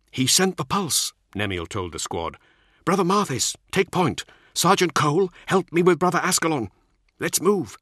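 rally the squad with urgency; commanding officer. Acted.

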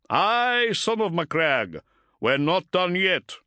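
slow, proud defiant voice; defiant commander. Acted. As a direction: promise you will fight on. Motep defiant reply.

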